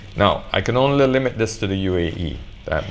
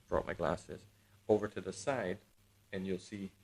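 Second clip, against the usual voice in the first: off-mic fade; 15 dB quieter than usual. Shown as a demonstration. Vlogger showing viewers the mic's pickup, off-mic and faint. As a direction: voice far off to the side, much fainter. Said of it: "where my voice starts to fade".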